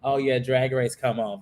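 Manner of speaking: low, underwhelmed acknowledgement; unenthused reaction. Acted. Host mimics a viewer worn out by the long season, unenthused. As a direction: say it like the show is now routine. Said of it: "versus being like".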